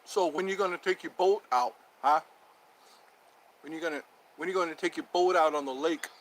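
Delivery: a lightly played tough guy; mock-tough, pushing the question; talking tough. Host quizzing a guest on his boat, mock-tough. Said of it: "We just talk tough to each other".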